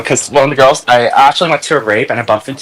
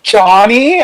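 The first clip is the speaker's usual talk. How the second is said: surprised call; 8 semitones higher than usual. Retold or imitated. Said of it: "they're like".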